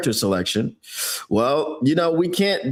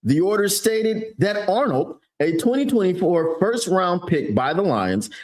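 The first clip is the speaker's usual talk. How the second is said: newscaster voice. Acted. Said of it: "newscaster voice".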